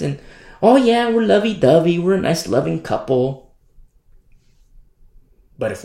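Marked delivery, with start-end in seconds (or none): 0.6-3.5 put-on happy couple, starting high; mock lovey-dovey. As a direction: gush falsely, then settle down. Mocks fake loving church couple.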